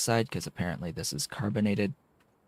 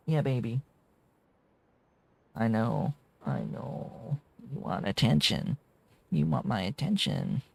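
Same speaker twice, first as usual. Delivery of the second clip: cooing pet talk; 4 semitones higher than usual. Real, not acted. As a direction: soothe the needy cat sweetly. Cooing to his cat.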